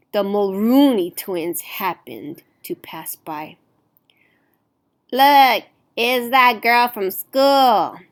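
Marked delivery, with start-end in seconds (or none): 5.1-8.0 put-on loud, slow jeering kid voice; schoolboy sneering at the odd girl; mocking twin. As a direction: point her out to tease her. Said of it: "one of them said".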